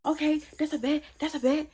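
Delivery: high-pitched mock huff; imitated huffy threat. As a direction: act out his heated parting shot. Ex storming off, acted.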